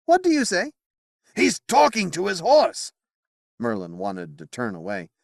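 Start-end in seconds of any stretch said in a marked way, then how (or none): 0.0-0.7 much higher and louder asking; loud question. Acted. Knight asking over the noise. 1.4-2.9 much higher and louder, rising; incredulous exclamation. Acted. Wizard exclaiming in disbelief.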